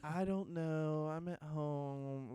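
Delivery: put-on reluctant, flaky tone. Retelling how she answered about still hanging out, the speaker imitates a flaky tone. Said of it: "she had that tone in her voice".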